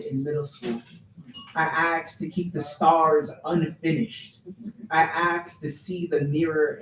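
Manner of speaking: poem told phrase by phrase, with swells; spoken-word storytelling. Acted. Poet tells audience about first haircut, animated poem reading. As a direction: recite it with a laugh breaking through.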